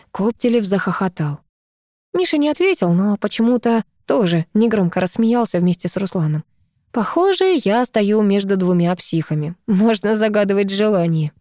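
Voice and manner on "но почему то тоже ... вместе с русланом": ordinary delivery, nothing marked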